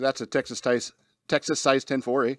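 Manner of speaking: a light mock Canadian accent, ending on eh. Shown as a demonstration. Radio host redoes his catchphrase in a light Canadian accent. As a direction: lightly put on Canadian accent, tagging eh at the end. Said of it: "I gotta do with a Canadian accent".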